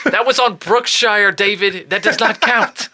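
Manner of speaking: put-on high, slow Boston-accented laughing scold. Teasing David about the bull in Boston accent. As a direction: needle him in a Boston accent. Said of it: "with that accent".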